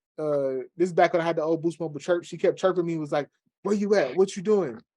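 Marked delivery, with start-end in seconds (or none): 3.6-4.7 put-on yell, higher. Retelling a girl's repeated angry phone chirps: imitating someone yelling. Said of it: "yelling at me".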